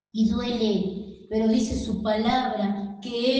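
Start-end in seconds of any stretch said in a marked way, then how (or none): 0.1-1.3 drawn out and hushed; slower, softer. Acted. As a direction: let it ache softly.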